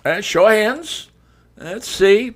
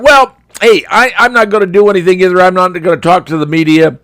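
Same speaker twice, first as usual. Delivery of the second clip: mock Trudeau; 3 dB louder than usual.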